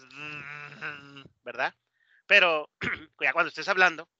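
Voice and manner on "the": The long, soft buzz; exaggerated th. Shown as a demonstration. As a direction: overdo the th in The. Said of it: "suena un poco exagerado".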